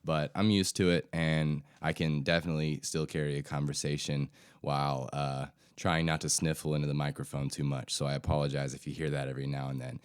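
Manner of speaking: stuffy, nasal head-cold voice; stuffy nose. Real, not acted. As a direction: talk through a blocked nose from a cold. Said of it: "Please excuse my stuffy, nasally voice. I'm dealing with a bit of a head cold".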